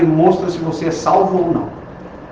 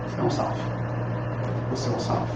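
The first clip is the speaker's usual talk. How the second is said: much softer, nearly whispered; hushed repetition; 5 semitones lower, 11 dB quieter, much faster than usual. Acted. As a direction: drop to a near whisper. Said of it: "repeated, softer".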